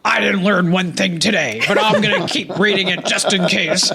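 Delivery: lightly voiced grumpy old reader; old man voice. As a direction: read it like a cranky old man. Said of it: "I always read 'em in the old man voice".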